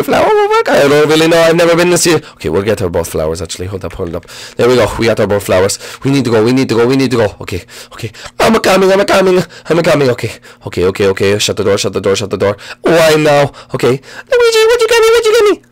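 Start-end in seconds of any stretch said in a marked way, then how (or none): 0.0-0.7 high fast frantic falsetto; high-pitched rushed princess; hurried princess voice. Acted. Peach voice. 14.0-15.6 very high whiny falsetto; high-pitched Peach pleading; demanding princess. Acted.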